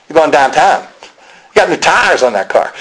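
mimicked Pittsburgh speech; Pittsburgh accent. Preacher showing how Pittsburgh people talk, Pittsburgh accent. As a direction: imitate a Pittsburgh local's accent. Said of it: "Just this the way they talk".

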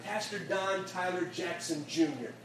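slow, deliberate, chest-out pride; proud declaration. Retold or imitated. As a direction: announce it with shoulders back. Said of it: "put his shoulders back, and he put his chest out".

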